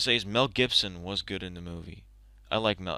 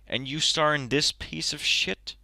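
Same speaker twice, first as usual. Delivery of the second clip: agitated rant; 5 semitones higher than usual. Real, not acted. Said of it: "I'm getting really agitated".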